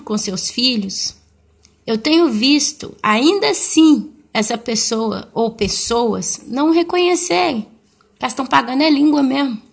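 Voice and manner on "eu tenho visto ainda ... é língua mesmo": fervent preaching. Acted. Preaching rises to full force.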